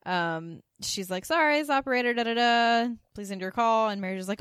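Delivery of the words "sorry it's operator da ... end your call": a light mock operator voice, higher and louder; fake operator. Friend covering a call, in a mild mock operator voice. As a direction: play a phone operator to get the friend off the line. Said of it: "pretending to be the operator".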